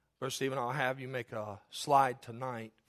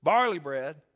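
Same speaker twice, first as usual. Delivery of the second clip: "barley bread" repeated with deliberate weight; emphasis on BARLEY; 5 dB louder, slower than usual. Shown as a demonstration. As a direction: punch "barley", then land "bread".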